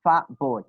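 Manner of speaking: put-on "fat boy" said as "fab boy"; changed t sound. Shown as a demonstration. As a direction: close the lips for the t of "fat". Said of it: "You will change T sound to P".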